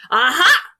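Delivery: high, loud "Aha!"; triumphant cry. A narrator's reading. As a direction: pounce on it like you've caught the killer. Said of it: "the inspector cried".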